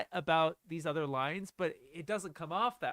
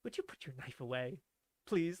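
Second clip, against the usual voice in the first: condescending imitation; 5 dB quieter than usual. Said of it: "Please" is, like, so condescending".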